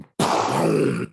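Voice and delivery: loud low crash noise; imitated crash. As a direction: make a sudden impact sound with the mouth. Imitates the impact in the retold fall.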